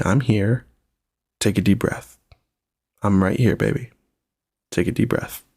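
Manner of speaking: gently retold reassurance, with pauses; mildly soothing, unhurried parent's words; calming a child. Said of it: "to calm your daughter down".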